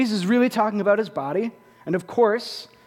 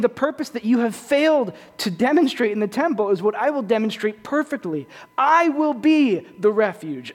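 a lightly raised, louder Jesus proclaiming; voicing Jesus; 4 semitones higher, 3 dB louder than usual. Preacher voices Jesus's promise to the congregation, mildly raised. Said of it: "He is saying".

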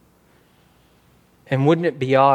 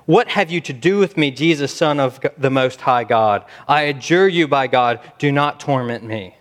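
raised-voice reading of a demoniac's plea; crying out; 5 dB louder than usual. Retold or imitated. Preacher reading the demoniac's words to Jesus, crying out loudly. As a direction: cry it out loudly, as if reading scripture aloud. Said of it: "crying out with a loud voice".

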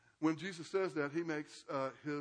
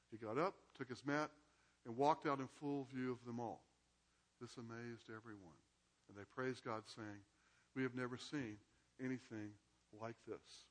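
measured Bible reading to the class; reading scripture aloud. A narrator's reading. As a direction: read the passage aloud, steady and clear. Reads the Gospel passage aloud.

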